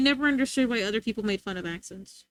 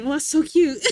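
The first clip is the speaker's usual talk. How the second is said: loud, higher gushing; cuteness aggression; 4 semitones higher, 4 dB louder than usual. Retold or imitated. Acting out cuteness aggression, loud gushing. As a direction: gush as if overcome by cuteness. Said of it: "I get cuteness aggression".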